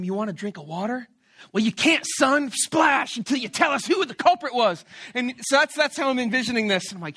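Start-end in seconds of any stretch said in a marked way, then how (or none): 0.0-4.8 lightly voiced police interrogator; mock interrogation, building in force; imagined interrogator. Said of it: "they're breaking him".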